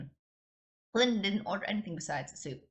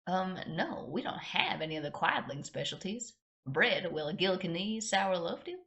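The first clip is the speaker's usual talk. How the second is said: slow American Southern drawl; polite waitress with Southern accent; 2 semitones higher than usual. Acted. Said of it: "giving her an American southern accent".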